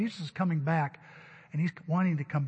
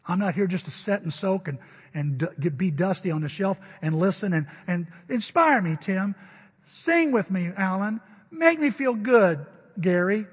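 mock demanding churchgoer; 2 semitones higher, 4 dB louder than usual. Consumer churchgoer mocked.

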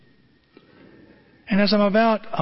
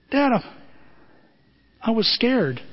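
put-on crying teen; 6 semitones higher than usual. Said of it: "And I start crying".

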